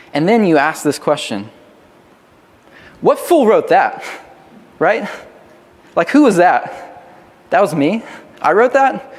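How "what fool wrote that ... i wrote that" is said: mock disbelief, pitch jumping on key words; incredulous. Preacher acts out rereading an old journal, incredulous. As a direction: play appalled at your own old writing.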